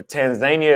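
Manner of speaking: Tanzania, middle syllable rhyming with "day"; Tanzania as tan-ZAY-nee-uh. Shown as a demonstration. Tanzania is pronounced Tanzania.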